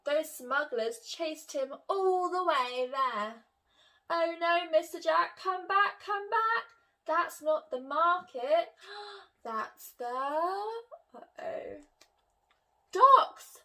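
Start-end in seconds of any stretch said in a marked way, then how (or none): 4.1-13.6 high, loud alarmed call; much higher cry of docks. Acted. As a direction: shout him back in alarm. Miss Jones calling again.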